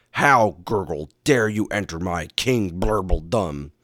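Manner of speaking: indignant underwater villain with gurgles; hammed-up gurgling villain voice; bubbly villain. A narrator's reading. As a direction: challenge the intruder through bubbles. Villain talking through bubbles underwater.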